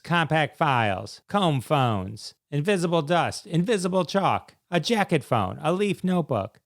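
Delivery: upbeat list-style sales pitch; scripted promo read. Acted. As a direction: sell it like a radio spot, item by item. Reads a gadget advert.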